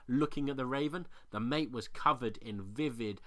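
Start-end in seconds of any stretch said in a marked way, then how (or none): none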